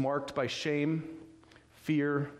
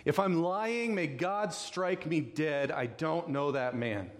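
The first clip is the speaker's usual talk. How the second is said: slow, emphatic imitated oath; strong denial; 3 semitones higher, slower than usual. Peter cursing himself as he denies Jesus, slow emphatic denial. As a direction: swear it word by word, drawn out. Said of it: "That's how strong his reaction is".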